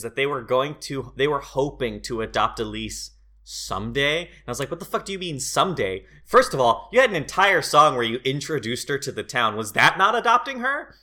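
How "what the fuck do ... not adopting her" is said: hammed-up indignant disbelief; mock outrage. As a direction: vent like you can't believe the movie. Retold outraged reaction to film.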